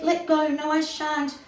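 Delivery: high, loud, panicky protest; scared refusal. A narrator's reading. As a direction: refuse in a fright, clinging on for dear life. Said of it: "But Kevin was scared".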